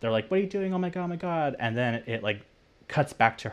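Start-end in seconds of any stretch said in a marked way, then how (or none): 0.3-1.5 much higher, alarmed retold cry; shocked horror. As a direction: gasp it out as a horrified witness. Boss sees murder in hospital.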